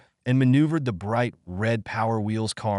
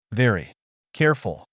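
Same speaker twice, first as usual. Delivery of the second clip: louder call across the yard; 4 dB louder than usual. A narrator's reading. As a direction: call a warning to the boy. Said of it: "she called".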